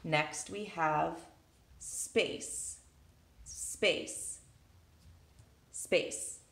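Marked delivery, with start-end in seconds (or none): 1.8-6.4 whispered word. Shown as a demonstration. Teacher to students, space whispered softly. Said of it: "Just one".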